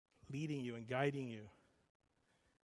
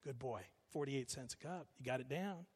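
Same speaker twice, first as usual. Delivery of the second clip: lightly voiced father, softening into praise; a hint of proud dad, quieter; approving dad; 2 semitones lower, 5 dB quieter than usual. Dad in his head praising thrifty son, approving. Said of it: "my dad to me is saying".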